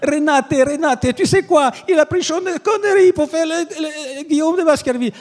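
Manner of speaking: Umberto Eco telling his wife in disbelief; dismayed exclamation. Retold or imitated. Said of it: "il se retourne vers sa femme". (Eco consterné, voix très aiguë et forte)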